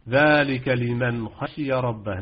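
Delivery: slow, drawn-out tajweed recitation; Quran recitation. Shown as a demonstration. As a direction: recite it slowly like a Quran reciter, letting each letter sound. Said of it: "نعم، الخاء مع نون ساكنة". (تلاوة مرتلة ببطء مع إظهار الحروف)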